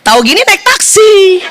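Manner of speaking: mildly huffy wife; a touch of mock indignation; retold annoyance. Wife sulking at her husband's blank face, mildly annoyed. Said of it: "saya marah, Bu".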